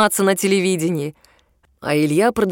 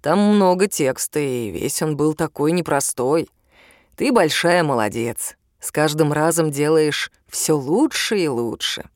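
warm; 4 semitones lower than usual. Acted. Ilya gently praising Liza.

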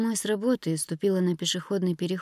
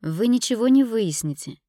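sharp, louder interruption; cutting her off; 5 semitones higher, 6 dB louder than usual. A narrator's reading. Ira cutting Dina off, sharply. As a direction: snap the words in to cut her off. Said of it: "оборвала она меня".

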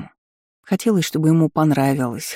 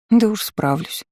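grumbling; 5 semitones higher than usual. A narrator's reading. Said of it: "проворчала в ответ".

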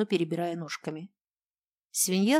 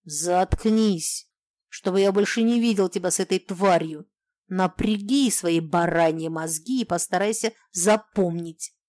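angry yelling; 5 dB louder than usual. Acted. Husband yelling at wife.

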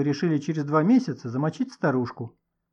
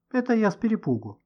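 plain reading voice

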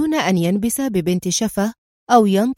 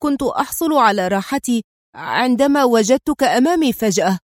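trembling; 2 semitones higher than usual. Acted. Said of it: "بكلمات مرتجفة".

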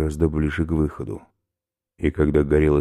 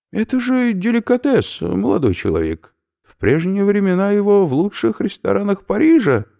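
high, loud lecturing professor; a delighted academic explaining his find; eccentric professor; 6 dB louder than usual. Acted. Professor lectures captives on snail protein, high eager voice.

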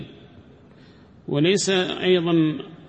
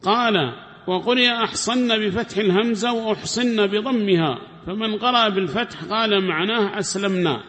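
reading the text aloud; 6 semitones higher than usual. Acted. Teacher reads the commentary to his class, formal reading voice. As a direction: recite the scholar's words like a text read to students.

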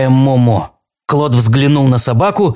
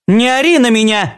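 squealing; 9 semitones higher than usual. A narrator's reading. Alice told Claude to stop yelling, squealing. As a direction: snap it out way up high. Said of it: "взвизгнула Элис".

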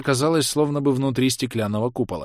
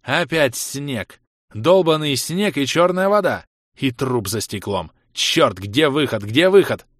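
frantic shouting; 3 semitones higher, slower than usual. Acted. Trapped Ros yells into the snow for an exit. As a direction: shout around for a way out. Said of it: "я крутнулся по сторонам и крикнул".

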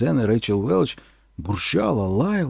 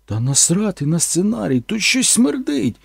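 higher, slow disgusted retort; crude actress; 6 semitones higher than usual. Retold or imitated. Actress dismissing the script over the smell, slow disgusted. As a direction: snap back, it stinks. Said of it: "Рейчел Велч сказала".

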